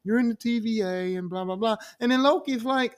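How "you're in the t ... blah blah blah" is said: imitating a patronizing explainer; condescending. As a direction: lightly talk down, as to a child. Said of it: "that's how he was with treating Loki".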